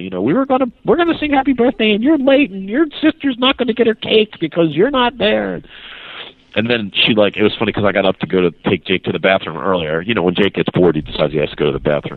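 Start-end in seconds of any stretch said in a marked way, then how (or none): 0.2-5.6 very high, chastising, scolding ranting voice. Retelling being scolded on the way back: imitating a waitress scolding. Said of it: "chastising us all the way".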